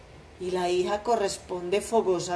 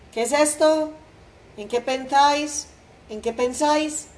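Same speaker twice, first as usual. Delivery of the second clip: alarmed; 6 semitones higher, 3 dB louder than usual. A narrator's reading. Servant intervenes in fight.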